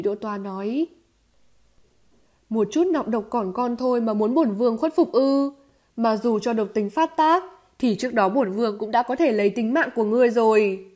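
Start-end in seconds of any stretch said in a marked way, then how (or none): 2.5-10.9 firm and haughty retort; hard, defiant. Acted. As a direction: stand your ground with an icy, hard voice. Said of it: "cứng rắn nói". (giọng cứng rắn, thách thức)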